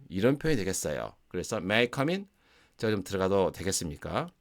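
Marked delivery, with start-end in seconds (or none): 1.6-4.3 polite request. Shown as a demonstration. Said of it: "이런 느낌이 강하게 온다는 거죠".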